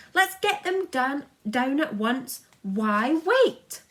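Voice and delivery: high, loud crowd shout; mighty shout. A narrator's reading. The crowd shouting to bring them down, high and loud. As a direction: roar it up like a whole city. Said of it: "a mighty shout went up".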